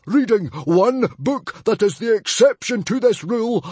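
high, loud scornful tirade; furious. Acted. Chief dismissing books to his son, furious. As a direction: rant with blustering scorn. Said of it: "he snorted furiously".

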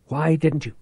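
harsh whispered accusation; urgent whisper. Acted. Reich accuses Tate, whispering urgently in the dark. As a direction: hiss the question at him.

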